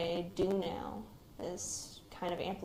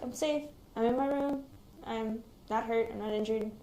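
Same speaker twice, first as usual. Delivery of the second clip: reassuring; 3 semitones higher than usual. Retold or imitated. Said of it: "And I'm just like".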